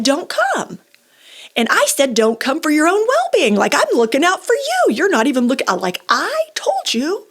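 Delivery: mother scolding her parents, loud and frustrated; exasperated telling-off. Retold or imitated. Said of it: "And I'm frustrated".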